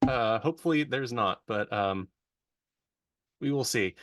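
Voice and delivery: glitchy, robotic call audio. Real, not acted. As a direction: voice warbling through a bad connection. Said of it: "your voice went all robotic".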